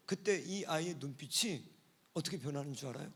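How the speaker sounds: ordinary talk, nothing marked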